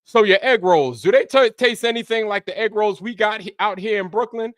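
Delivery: high, loud, eager questioning; nosy brother. Retold or imitated. Brother quizzing someone from China about egg rolls, high eager voice. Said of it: "He'd be like".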